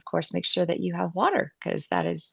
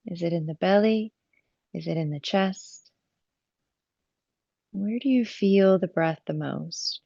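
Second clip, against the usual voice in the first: calm yoga teacher guiding the breath, with long pauses; measured phrases, leaving space to breathe; guided breathing meditation. Real, not acted. Yoga teacher guiding students' attention to the breath, calm meditative delivery.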